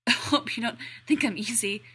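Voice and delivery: stammered sarcastic quip. Acted. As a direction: toss it off sarcastically. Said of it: "He's pretty sure he's sarcastic".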